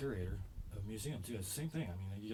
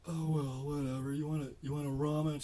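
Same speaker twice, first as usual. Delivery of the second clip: higher, breezy ditzy voice; airhead girlfriend voice; 5 semitones higher, 4 dB louder than usual. Retold or imitated. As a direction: play her as carefree and clueless. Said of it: "and she's like".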